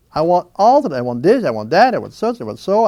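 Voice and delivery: acted restless craving, each want bursting out. Man voicing his own endless wants, restless and insistent. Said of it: "full of wants and restlessness and anxiety".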